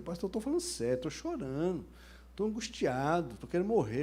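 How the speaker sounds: imitating a desperate man's plea, starting high and quick; lightly hammed-up anguish to the pastor; mock frantic distress. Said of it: "Aí ele ficou doido".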